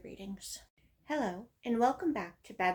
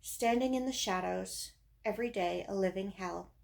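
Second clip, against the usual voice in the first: deliberate, emphatic verse reading; poem recitation; 4 dB louder than usual. Acted. Reading own teenage poem about depression, emphatic recitation. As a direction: declaim each short line, pausing after it.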